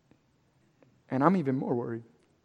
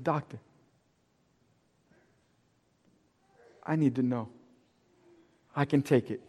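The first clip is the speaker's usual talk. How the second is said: near tears; 8 semitones lower, 11 dB quieter than usual. Retold or imitated. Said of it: "my voice is almost cracking".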